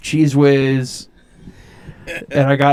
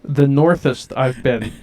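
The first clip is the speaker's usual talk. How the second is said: teasing repeat; slower than usual. Retold or imitated. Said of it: "northest is not a word".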